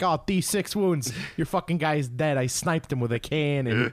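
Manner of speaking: gloating opponent. Retold or imitated. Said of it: "They're like".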